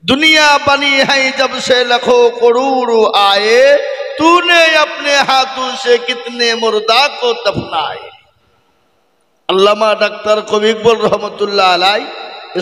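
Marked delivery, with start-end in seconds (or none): 0.0-8.1 poem recital. Acted. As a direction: declaim the couplet slowly like a poet. Recites Urdu couplet by Iqbal. (উচ্চস্বরে উর্দু শের আবৃত্তি)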